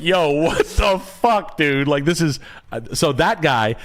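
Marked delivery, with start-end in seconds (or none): 0.0-1.9 retold astonishment. Retells his stunned reaction to tattoo.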